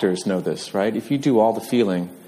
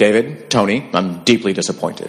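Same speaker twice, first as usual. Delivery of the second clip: newscast-style announcer delivery; 4 dB louder than usual. Retelling how he yelled at David and Tony, in an Edward R. Murrow voice. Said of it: "he sounded like a 1940s radio announcer".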